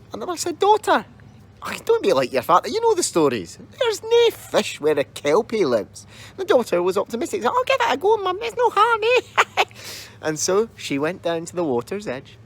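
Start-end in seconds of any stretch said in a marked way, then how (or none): 0.6-6.1 high, anxious mother voice; fretting mother. Acted. 7.5-9.6 put-on high, bright girlish voice; chirpy young girl. Daughter voiced.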